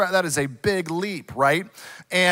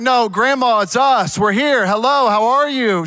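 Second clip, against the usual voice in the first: loud call to grandma on a video call, louder; 3 semitones higher, 5 dB louder than usual. Retold or imitated. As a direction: shout hello into the phone for grandma to hear.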